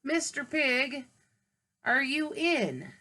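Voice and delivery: slow, sweet calling at the door; calling out politely. Acted. Wolf calling politely at the pig's brick door, slow and sweet. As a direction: lay on the fake politeness, drawn out. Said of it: "I called".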